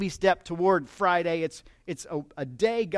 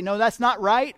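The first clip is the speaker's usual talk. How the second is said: "No, that's not right" cut in louder, rising on "not"; interrupting correction; 4 semitones higher, 6 dB louder than usual. Retold or imitated. Customer interrupts the cashier typing a wrong order, louder. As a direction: jump in to stop the typing. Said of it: "interrupt at that point and say".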